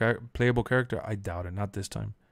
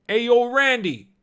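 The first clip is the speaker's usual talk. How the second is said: slow, loud, much higher call; 13 semitones higher, 7 dB louder, slower than usual. Retold or imitated. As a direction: stretch the yell of his name. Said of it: "and he goes".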